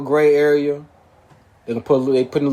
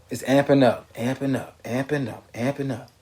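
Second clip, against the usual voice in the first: fading worried repeat; 5 dB quieter than usual. Real, not acted.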